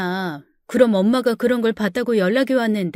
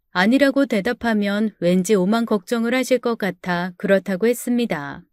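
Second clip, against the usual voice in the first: normal talking voice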